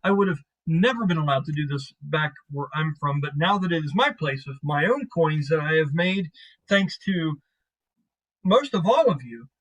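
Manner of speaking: lightly acted animated boasting; animated chatter. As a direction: talk with a touch of animated showing off. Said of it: "very animatedly talking like this".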